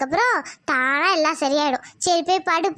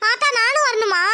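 put-on higher, whiny girl; reluctant daughter; 6 semitones higher than usual. Daughter asking grandmother, reluctant. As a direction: ask hoping to skip it.

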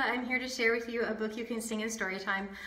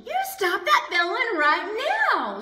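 much higher, louder scold; higher, louder big sister scolding; older sister scolding; 8 semitones higher, 5 dB louder than usual. Acted. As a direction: snap at her little sister to stop.

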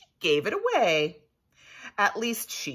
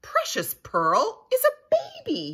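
pirate captain roaring, much higher and louder; 6 dB louder than usual. A narrator's reading. Captain roars at the pirates about the baby, roaring. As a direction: bellow it like an angry pirate. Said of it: "he roared".

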